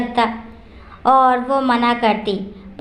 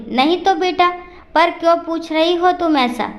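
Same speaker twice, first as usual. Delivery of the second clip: higher, puzzled no and a why; surprised; 4 semitones higher than usual. Acted. Father-in-law puzzled by daughter-in-law's question, surprised. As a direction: caught off guard, asking back gently. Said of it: "हैरानी से बोले".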